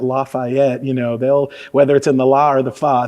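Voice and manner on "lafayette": Lafayette with too broad an "ah"; overdone ah. Shown as a demonstration. Showing how outsiders give themselves away, overdone ah in Lafayette. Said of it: "put too much ah on that".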